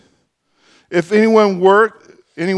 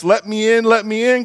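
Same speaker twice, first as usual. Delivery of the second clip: wolf voice; 5 semitones higher than usual. Acted. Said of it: "cried the wolf".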